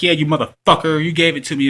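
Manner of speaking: mock her blowing up at him; flying off the handle. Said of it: "she just flew off the handle".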